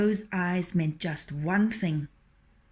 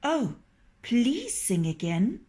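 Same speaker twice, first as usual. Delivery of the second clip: pleading fox; 5 semitones higher than usual. Acted.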